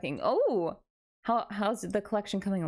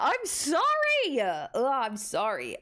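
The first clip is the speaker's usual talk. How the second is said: mock apology; 3 semitones higher, much slower than usual. Scolded by chat for teasing.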